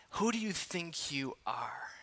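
hushed whisper of the question. Acted. Preacher replaying the scolding to himself, whispering. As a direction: breathe it as if to yourself.

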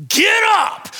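high, loud bellow cutting off the pleading; God's shouted command. Acted. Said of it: "he's crying out to God. And he's like".

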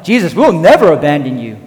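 lightly voiced indignant promise; disciples' protest. Disciples protesting to Jesus they would never leave, insistent. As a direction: insist earnestly, as if quoting loyal followers. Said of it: "these disciples are kinda like".

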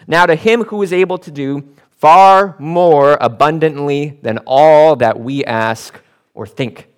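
slow, loud proclamation of the verse; proclaiming scripture. Acted. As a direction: declare each word slowly to the congregation.

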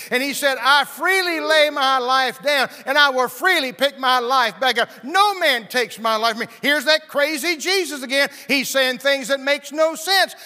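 loud, high, driving sermon climax; rising revival preacher, loud and high; full-force preaching. Acted. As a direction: preach it hard, building to a shout.

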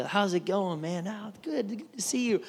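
casual, quick friendly greeting; imitating everyday chit-chat; everyday chatting voice. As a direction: toss it off like small talk. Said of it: "like, they're talking to everybody".

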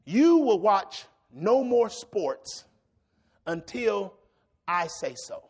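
slow, measured decree, falling away at the end; stern parental command. Retold or imitated. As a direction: lay down the law with long pauses. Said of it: "had a mama or daddy that told you".

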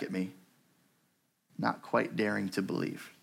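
measured memoir reading with deliberate pauses; story reading. A narrator's reading. Preacher reading Corrie ten Boom's memoir to church, story reading. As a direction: read it out as her testimony.

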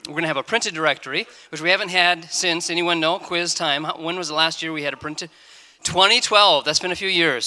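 talking with a mint in the mouth; speaking around a mint in the mouth; strong mint. Real, not acted. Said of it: "Um, it's hard to talk with that".

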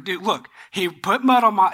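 mildly exasperated retold reply; frustrated. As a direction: imitate a man fed up with being asked. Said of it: "you can kind of hear the frustration".

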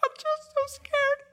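put-on tiny scared boy voice; squeaky little boy. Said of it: "He's like".

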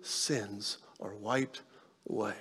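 slow, soft, tender blessing; tender Jesus. Retold or imitated. Jesus speaking to the weeping woman, soft and slow. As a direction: gently release her. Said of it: "Jesus looks at her and he says".

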